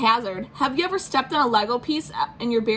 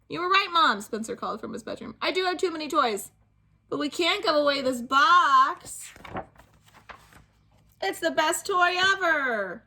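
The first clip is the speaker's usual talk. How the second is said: put-on sweet kid voice; 6 semitones higher than usual. Spencer calling from bedroom to mom, higher innocent kid voice. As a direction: explain it with innocent delight. Child voice.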